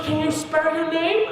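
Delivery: put-on high-pitched excited Chinese-accented examiner; hammed-up Chinese accent, very high; thick Chinese accent. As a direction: announce it as a thrilled Chinese lady. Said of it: "she had a really thick Chinese accent".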